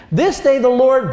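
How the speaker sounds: loud, high confrontation; in his face. Retold or imitated. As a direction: get right in his face. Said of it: "he gets right in his face".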